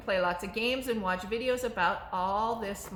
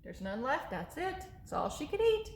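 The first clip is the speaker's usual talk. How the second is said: ordinary talk, nothing marked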